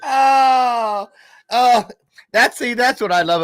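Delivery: high, loud words through laughter; laughing. Real, not acted. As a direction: still cracking up. Laughing at own pun.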